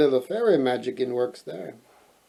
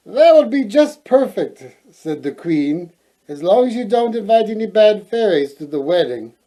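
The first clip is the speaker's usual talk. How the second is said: queen's voice; 5 semitones higher, 4 dB louder than usual. Acted. Queen answering her daughter.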